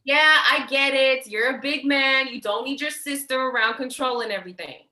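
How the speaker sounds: sister sneering at her brother's independence; sarcastic. Acted.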